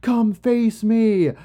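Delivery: slow, high-pitched mock bellow, every word stretched; bellowing challenge. Enkidu challenging Gilgamesh before the townspeople, slow mock bellow. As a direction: call out a drawn-out challenge to a rival. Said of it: "Enkidu kinda bellows out".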